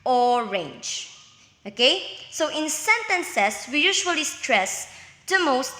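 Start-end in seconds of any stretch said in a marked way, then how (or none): 0.0-1.1 "orange" measured out as two syllables; "orange" in two distinct beats; split into syllables. Shown as a demonstration. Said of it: "there are only two syllables".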